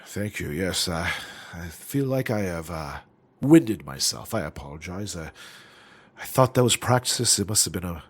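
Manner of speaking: a hint of a winded old gentleman; old man voice. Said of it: "this old man voice".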